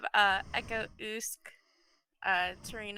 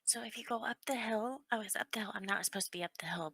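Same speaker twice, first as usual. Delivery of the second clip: whisper; 3 semitones lower than usual. Acted. Child character whispering directions.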